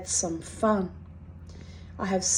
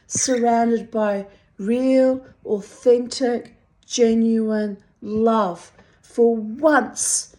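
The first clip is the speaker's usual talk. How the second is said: pleading emphasis; 3 semitones higher, 5 dB louder, slower than usual. Real, not acted. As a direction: stretch each word out with longing. Yearning plea for real love.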